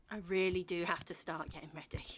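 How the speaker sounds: whispered to herself; hushed whisper under the breath; breathy whispered aside. Acted. Aside while preparing alone.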